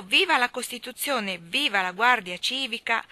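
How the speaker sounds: rousing cheer of the crowd; crowd cry. Acted. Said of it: "Subito il grido".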